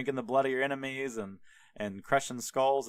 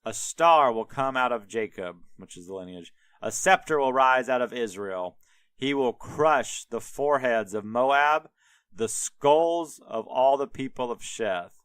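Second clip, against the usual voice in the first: dramatic prophecy; 6 dB louder than usual. Retold or imitated. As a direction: drop the prophecy like a mic. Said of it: "he just drops".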